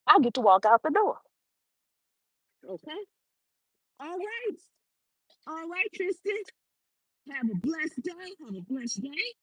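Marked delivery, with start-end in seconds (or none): 2.6-9.3 aside. Real, not acted. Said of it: "aside to someone off mic".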